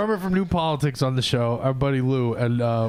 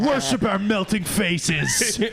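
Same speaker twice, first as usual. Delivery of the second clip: mock idol; 4 semitones higher, slower than usual. Acting as the ice-sculpted faces.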